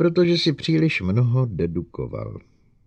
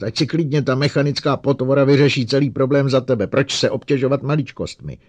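loud, sneering shout; 6 semitones higher, 7 dB louder than usual. Acted. Bogart mocks Lanning, shouting loudly. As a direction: yell the sarcasm across the room. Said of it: "křičel Bogart".

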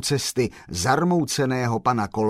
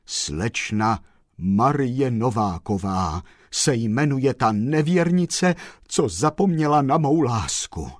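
woeful sigh; 2 semitones higher than usual. Acted. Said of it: "řekl s žalostným vzdechem".

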